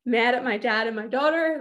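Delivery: usual speaking voice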